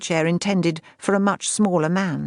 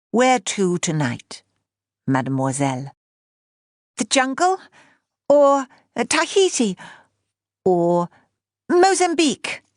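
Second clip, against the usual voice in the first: playful pilot uncle; 4 semitones higher than usual. Acted. Uncle playing flying couch.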